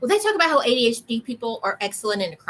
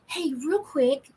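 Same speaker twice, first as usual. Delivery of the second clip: slow casual interrupt; 3 semitones higher, slower than usual. Retold or imitated. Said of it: "And I would go".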